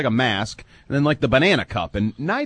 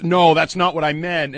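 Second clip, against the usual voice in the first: slower, raised-pitch mock denial; defensive; 4 semitones higher than usual. Co-host imitating a colleague explaining a gaffe, defensive. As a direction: imitate someone backpedalling uncomfortably. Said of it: "Then he gets defensive".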